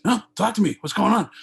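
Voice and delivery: imitating upbeat insistence, high and loud; a rock star, super upbeat. Rock star urges his caller to stay on, super upbeat. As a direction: loudly keep the caller talking, super upbeat. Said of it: "he was super upbeat".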